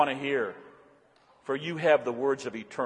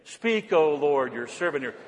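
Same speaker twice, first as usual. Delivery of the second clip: slow, drawn-out recitation; slow prayer. Shown as a demonstration. Congregation repeating the prayer after the pastor, slow. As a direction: speak it slowly with the congregation. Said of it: "Say it with me".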